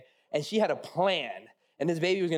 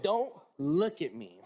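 wife's warning; slower than usual. Retold or imitated. Repeats wife's warning slowly.

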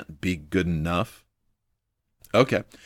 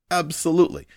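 excited burst; 10 semitones higher than usual. Real, not acted. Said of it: "if I seem to get a little excited".

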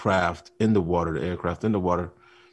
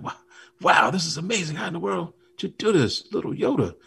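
much higher, awestruck exclaiming; amazed Luke; 11 semitones higher than usual. Retold or imitated. Luke marvelling at Yoda raising the ship, high amazed voice. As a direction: gush at the wonder of it. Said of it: "He's all around the ship like".

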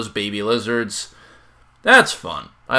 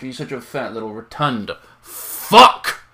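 cute aggression; 3 dB louder than usual. Real, not acted. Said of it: "That's that cute aggression again".

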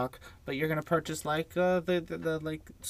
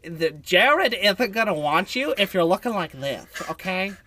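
put-on louder, higher Valley Girl lecture; 3 semitones higher, 6 dB louder than usual. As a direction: scold her like a Valley Girl. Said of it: "I'm good with my voice impressions".

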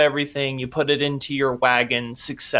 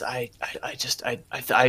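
faltering whisper; 6 dB quieter than usual. Acted. Captive stammers, ashamed.

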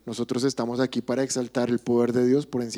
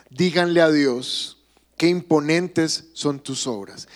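slow scripture reading. Shown as a demonstration. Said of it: "Salmo sesenta y seis".

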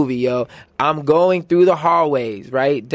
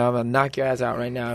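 low, quiet tough-guy threat; low menacing threat; 3 semitones lower, 6 dB quieter, faster than usual. Retold or imitated. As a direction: mutter the threat low and cold. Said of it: "With that voice?".

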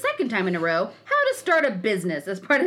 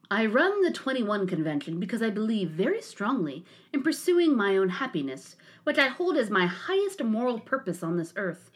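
lowered smug self-important voice; mock him with a lowered smug drone; Anthony Dream Johnson voice. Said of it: "Let me try to get my Anthony Dream Johnson voice".

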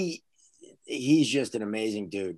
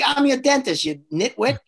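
higher, louder mock scolding; exasperated dentist; 11 semitones higher, 4 dB louder than usual. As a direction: scold him like a fed-up dentist. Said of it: "He's like".

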